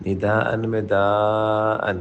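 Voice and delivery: نداء with the long aa of daa stretched out; lengthened daa. Shown as a demonstration. Teacher showing the long madd in نداء. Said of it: "اس کو آپ نے لمبا کرنا ہے".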